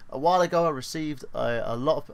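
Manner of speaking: lightly attempted Australian accent on a quote; tentative Aussie accent. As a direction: read it out with a hint of Australian. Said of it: "trying to do an Australian accent".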